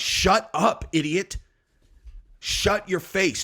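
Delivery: high, punchy telling-off; exasperated retort. Acted. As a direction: shut them down, each word hit hard. Imagined angry retort to them.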